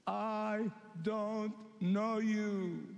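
langzaam en ernstig, elke lettergreep gerekt; slow, grave refusal, each word weighed; bridegroom's rejection. Acted. Bridegroom rejects foolish virgins.

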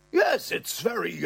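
high, strained fluster; father shown tattoo, high flustered voice. Retold or imitated. Father stuck for words.

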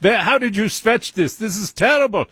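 high-pitched mock German scolding; yelling in German accent. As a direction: scold like a hammed-up German doctor. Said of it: "he's yelling at me with a German accent".

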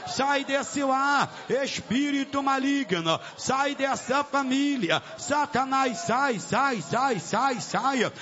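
insistent, chant-like repeated expulsion commands; exorcising command. Real, not acted. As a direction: drive the demon out in relentless high bursts. (ordem de expulsão, insistente e cadenciada)

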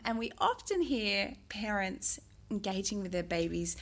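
ordinary delivery

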